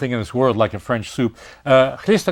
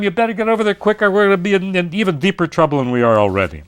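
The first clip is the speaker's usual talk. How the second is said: hurried, higher, breathless warning; excited rush; 6 semitones higher than usual. Retold or imitated. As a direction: urge them to hurry, quicker pace. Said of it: "rush back to the mayor and say".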